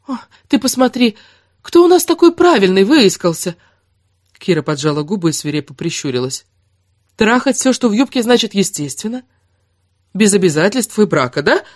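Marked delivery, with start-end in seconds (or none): 0.1-3.6 1 tag only: sarcastic mockery. Kira mocks Erik in a fight. 7.2-11.6 1 tag only: angry sarcasm. Acted. Kira attacks Erik angrily.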